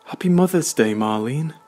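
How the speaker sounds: high, loud, beaming greeting; jubilant cry. A narrator's reading. Brandon's mum rushing over to greet Marlene, jubilant and loud. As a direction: burst out with delighted cheer. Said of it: "she jubilantly cried".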